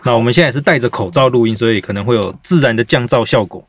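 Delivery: muffled behind a mask; through a face mask. Real, not acted. (戴着口罩说话)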